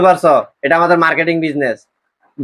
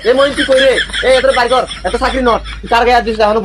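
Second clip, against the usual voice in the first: higher, indignant boss shouting orders; fly into a mild rage at an underling; angry outburst; 3 semitones higher than usual. Acted. Boss firing a rude trainee, angry outburst.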